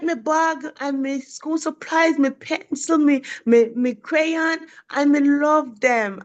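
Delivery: lightly voiced second grader; child's voice. Teacher retells the boy's call in his voice. Teacher voicing a young pupil.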